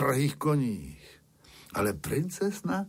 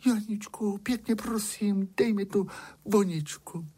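pleading princess; 9 semitones higher than usual. A narrator's reading.

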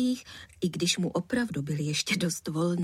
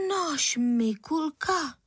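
slow, higher stunned question; taken aback; 6 semitones higher, much slower than usual. Acted. Mother hearing her son blamed, taken aback. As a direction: stop short in disbelief. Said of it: "zarazila se".

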